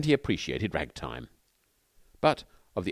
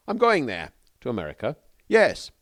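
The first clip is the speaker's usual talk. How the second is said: eager announcement; 5 semitones higher, 6 dB louder than usual. Acted. Bill announces his plan eagerly.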